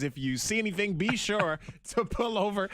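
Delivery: easy, even traffic update delivery; casual on-air announcer patter; radio traffic read. Real, not acted. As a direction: read the roads and weather to listeners.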